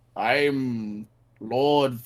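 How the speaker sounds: put-on elderly lord voice, drawn-out "I'm". Acting out someone practicing a voice in a mirror: old person voice. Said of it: "Va- it's old".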